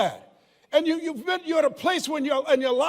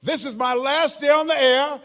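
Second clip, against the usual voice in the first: normal talking voice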